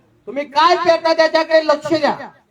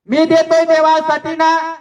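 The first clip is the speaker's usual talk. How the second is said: drawn-out boastful I give to God; slow mock brag of a showy giver; mock bragging shout; 2 semitones higher than usual. Preacher mocking a showy giver to his congregation, drawn-out brag. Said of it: "असा ओरडतो देण्यासाठी".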